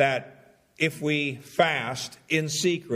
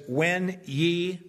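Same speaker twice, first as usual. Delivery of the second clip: "When" stressed, raised; emphatic quote; 4 semitones higher than usual. Shown as a demonstration. Pastor pointing out plural to congregation, emphatic. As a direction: lean on "When ye".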